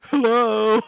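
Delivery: imitating him. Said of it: "he's sitting there in silence going".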